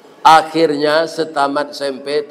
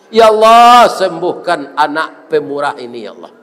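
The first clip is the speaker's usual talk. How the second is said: retold desperate appeal to God, fading away; acted tearful prayer; 4 dB louder than usual. Doctor begs God to heal the generous patient, tearful. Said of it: "menangis Ewar Keli ini".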